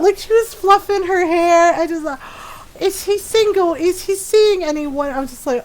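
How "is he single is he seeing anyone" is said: high, coy mock questioning; imitated flirty interest. Friend fishing about the teller's dad, mock flirty.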